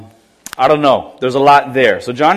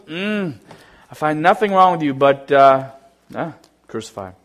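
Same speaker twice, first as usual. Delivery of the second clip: mock indifferent shrug; 4 semitones lower, 3 dB quieter than usual. Mocking Pilate's careless verdict.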